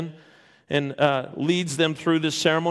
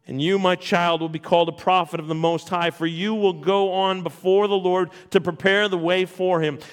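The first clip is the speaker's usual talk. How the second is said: scripture reading. Acted. Reads Zechariah's song from scripture.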